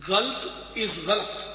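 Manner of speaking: first "غلط" as galt, last "غلط" as ghalat; one-syllable "غلط", then two-syllable "غلط"; wrong against correct. Shown as a demonstration. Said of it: "صحیح تلفظ ہے غلط".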